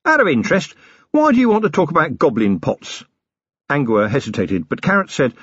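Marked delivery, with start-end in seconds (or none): 0.0-3.0 higher, mock-innocent offers of drinks; a blustering self-made man playing host; cheeky boss offering coffee, tea, something stronger; Harry King rough boss. Harry probes.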